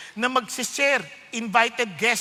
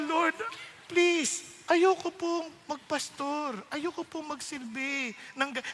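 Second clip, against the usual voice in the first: pleading prayer; 3 semitones higher than usual. Retold or imitated.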